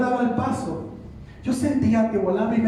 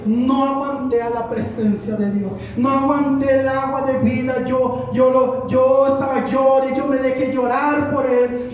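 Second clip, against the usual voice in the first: raised, insistent testimony voice; impassioned preaching; 5 semitones higher, 3 dB louder than usual. Acted. Preacher telling the congregation how he broke down weeping, impassioned preaching. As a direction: keep the fervor up as it eases from the peak.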